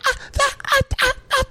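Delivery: very high stammering gasps; can't get the words out, starstruck. Retold or imitated. Friend stunned by a celebrity passing, stammering. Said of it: "Can't speak. Can't look".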